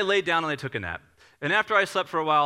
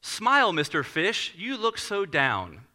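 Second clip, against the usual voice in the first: picture-book reading; 2 semitones higher, slower than usual. Retold or imitated. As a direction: read to a child, sing-song and drawn out. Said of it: "Let me read it to you".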